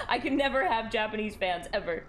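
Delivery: laughing at your own misfortune; laughing dismay. Real, not acted. Streamer to viewers about an embarrassing name, laughing dismay. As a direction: talk through a laugh.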